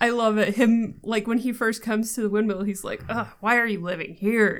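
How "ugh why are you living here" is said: put-on grumbling old man voice. Retelling a film scene where the baron complains on arrival: imitating a grumbling old man. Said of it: "just grumbling about it".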